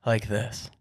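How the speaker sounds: lightly imitated comedian's delivery; hint of a comedian impression; Daniel Tosh. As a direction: slip lightly into mimicking a comedian. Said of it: "he always talks like this".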